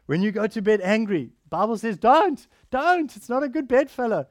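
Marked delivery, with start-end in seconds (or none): 2.0-4.3 louder and higher, pleading urgency; emphatic warning. Acted. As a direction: sound the alarm on 'Don't, don't'. Quoting the Bible's warning emphatically.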